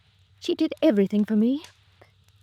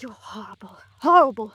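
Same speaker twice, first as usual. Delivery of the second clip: a hurt, rising cry of accusation; distraught outburst; 4 dB louder than usual. Acted. Grieving sister turns on the detective, distraught. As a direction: lash out at him through shock.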